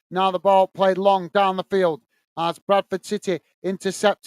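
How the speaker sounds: steady live match commentary; play-by-play. Acted. Commentator calling the match for stream viewers, play-by-play. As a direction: call the action as it unfolds.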